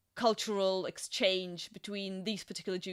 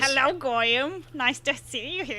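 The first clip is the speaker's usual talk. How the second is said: put-on Yiddish accent; 4 semitones higher, 5 dB louder than usual. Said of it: "that's a terrible Jew voice".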